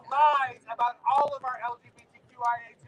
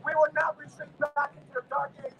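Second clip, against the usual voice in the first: call and response lead; 3 dB louder than usual. Real, not acted. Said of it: "repeat after me".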